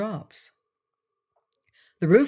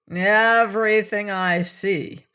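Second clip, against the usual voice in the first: slow and surly, a little higher; grudging, sulky reply; 4 semitones higher, 4 dB louder, slower than usual. Acted. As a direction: answer like you resent being asked. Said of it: "in a more surly tone".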